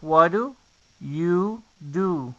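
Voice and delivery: "What do" flapped as "waru", all run together; linked "What do you do". Shown as a demonstration. Teacher demonstrating the whole linked question. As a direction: say it as "waru-yu-du", one flowing phrase. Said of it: "por lo que quedaría así".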